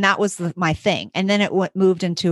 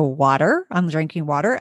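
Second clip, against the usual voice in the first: retold lightly sarcastic answer; mildly sarcastic; 4 semitones lower than usual. Teacher answering principal's random question, mildly sarcastic. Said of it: "I might've said it sarcastically".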